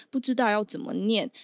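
normal talking voice

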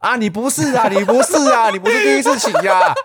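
high, loud mock old-man voice; nosy old man teasing a new rider, hammed up high; imitating the old man. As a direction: ham up a chatty old uncle. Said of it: "然后他说".

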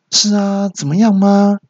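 high-pitched, challenging comeback; testy nurse reply. Acted. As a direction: answer the caller with open annoyance. Annoyed nurse answers the caller. (学护士高声不耐烦地回问)

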